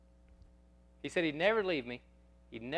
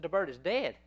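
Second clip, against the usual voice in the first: higher, incredulous echo on DEAD; surprised echo question; 4 semitones higher than usual. Retold or imitated. Shop lady hearing the pet has died, surprised question. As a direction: repeat it back in disbelief, voice lifted on "dead".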